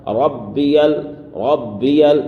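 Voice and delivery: ربی with the ba doubled and pressed; ربی said as rab-bi, ba held firm. Shown as a demonstration. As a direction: lean hard on the ba in ربی. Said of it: "تھوڑا سختی کریں گے".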